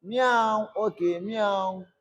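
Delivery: playful meow into the recorder; light cat imitation; mock cat meow. Shown as a demonstration. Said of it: "Let me record it".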